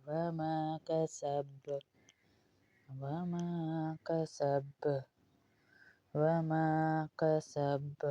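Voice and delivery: کسب with hissing seen and bouncing ba; whistling seen and qalqalah. Shown as a demonstration. Teacher shows the seen and ba in کسب. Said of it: "سین میں سختی اور سیٹی کی آواز".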